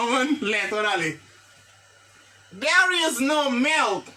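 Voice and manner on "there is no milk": very slow, carefully spaced English model sentence; lecture lente. Shown as a demonstration. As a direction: say each word slowly so the class can repeat. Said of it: "Qui ça dit là?". (phrase modèle dite très lentement)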